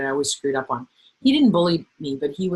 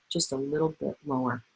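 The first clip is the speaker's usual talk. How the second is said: quieter than regular talking; slightly lowered voice; 6 dB quieter than usual. Shown as a demonstration. Coach demonstrating a reply to yelling, slightly lowered voice. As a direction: take the volume down just a notch. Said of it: "Not my regular talking voice".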